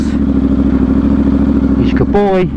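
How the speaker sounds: very low, very slow doggy voice; deep slow dog voice. Pretend. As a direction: drag it out deep like a big dog. Talking to puppy.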